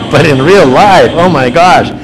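loud excited amazement; excited awe. Real, not acted. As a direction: exclaim at how scary it looks. Laughing awe at huge waves.

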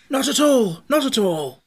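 high, loud, merry dismissal; gay. A narrator's reading. Scarecrow brushing off Jack's fear, gaily and high. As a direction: wave the worry away gaily. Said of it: "replied the Scarecrow gaily".

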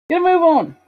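lightly Australian character voice; a touch of Australian in the read-aloud; Australian accent. Acted. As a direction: slip into a slight Australian accent. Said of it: "I'm doing Australian, aren't I?".

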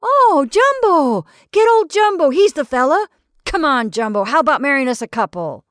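high, loud whoop for Jumbo; excited shouting. Acted. Revellers hailing Jumbo to marry them, whooping. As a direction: hail him from across the room.

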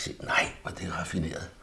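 softly whispered admiration. Real, not acted. Painter whispering in admiration over his own drawing. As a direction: breathe it out in awe at the detail.

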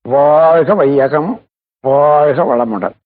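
slow, measured invocation; recited blessing. Acted. Teacher opening a relaxation session with a blessing, slow solemn recitation. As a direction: intone each phrase with drawn-out vowels.

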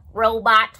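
stiff mechanical robot voice. Shown as a demonstration. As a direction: speak like a toy robot. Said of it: "Can everybody use your robotic voices?".

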